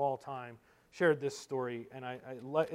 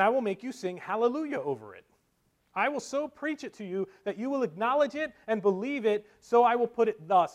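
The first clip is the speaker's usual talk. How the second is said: raised, insistent pulpit voice; fervent preaching; 8 semitones higher, 8 dB louder than usual. Acted. Spurgeon telling brethren he will convince them, preaching fervently. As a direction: press the promise home to the hearers.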